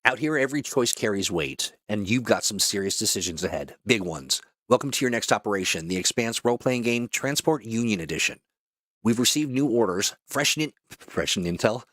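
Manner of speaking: polished mission-briefing announcer; brief the crew like a game trailer; promo voice-over. Acted. Voice actor welcoming players to their next operation, announcer read.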